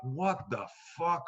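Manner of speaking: slow, drawn-out incredulous question; mock disbelief. Comic told he'll do fifteen years, slow disbelief. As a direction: stretch it out, stunned.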